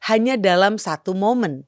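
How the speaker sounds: calm, thoughtful podcast cold open; reflective intro reading. Acted. Reflective intro read before the show.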